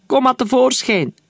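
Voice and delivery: calling, high and loud, toward the trees. A narrator's reading. Captain calls his hidden men forward, loud call. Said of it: "riep de kapitein".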